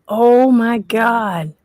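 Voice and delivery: very slow, drawn-out astonishment; real amazed reaction; awed disbelief. Real, not acted. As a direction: draw every word out, stunned. Learns the ghost admitted killing.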